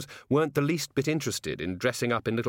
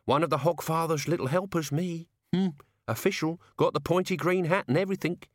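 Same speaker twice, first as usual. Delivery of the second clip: high-voiced leering helper; cheeky old servant showing off; 7 semitones higher than usual. A narrator's reading. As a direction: gloat slyly, pitched up. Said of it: "said Albert, leering".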